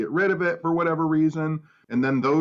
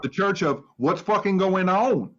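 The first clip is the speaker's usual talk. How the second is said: mock preacher; 5 semitones higher than usual. Mock preacher opening a service.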